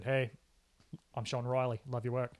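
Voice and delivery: a light imitation of Sean Riley's accent. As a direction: lightly mimic how Sean Riley speaks, accent and all. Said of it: "that's a good accent".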